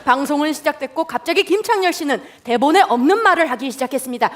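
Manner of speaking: ordinary talk, nothing marked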